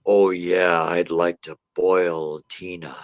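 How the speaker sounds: low, slow imitation of a disembodied man; lightly voiced male spirit, slow and low; eerie male voice. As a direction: draw it out low like a recorded ghost. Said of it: "A man's voice or a male voice in tone".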